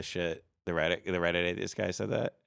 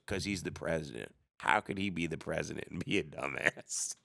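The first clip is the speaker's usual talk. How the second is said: mild hick guy, softer; quiet hick reasoning; 5 semitones lower, 6 dB quieter than usual. Retold or imitated. Hick guy quietly explaining the president can't be dumb. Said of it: "And he goes".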